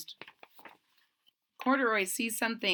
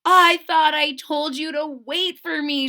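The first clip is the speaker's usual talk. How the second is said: louder, higher mild scolding; a gentle telling-off; Lisa's voice; 6 semitones higher, 9 dB louder than usual. Acted. Lisa scolding Corduroy on the way home, mildly.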